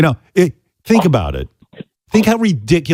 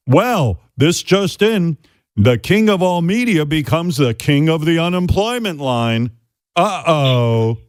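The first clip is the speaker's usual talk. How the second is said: imitating a news anchor, higher and slow at first; mock newscaster; 6 semitones higher, slower than usual. Mocking the news about a retired host, as an anchor. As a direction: read it like a gloating headline.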